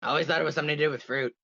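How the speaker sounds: lightly voiced Tui, low and quick; quick, low character attempt. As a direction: have a modest go at a character voice, rattled off low. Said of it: "Do, do I dare attempt to do a Tui voice".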